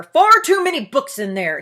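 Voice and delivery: loud, indignant protest; protesting loudly. A narrator's reading. Loud protest. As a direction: Bear protests the library is too big. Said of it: "he protested".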